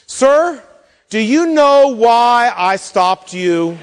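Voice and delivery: stern trooper. Retold or imitated. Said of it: "he says to me the famous question".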